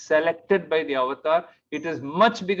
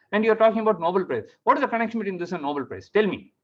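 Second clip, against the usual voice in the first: fast, exasperated retold rebuke; angry scolding; 3 semitones higher, faster than usual. Husband scolding wife after her interruptions on the call, angry. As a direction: reel off indignant questions, mildly raised voice. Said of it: "So angry with her".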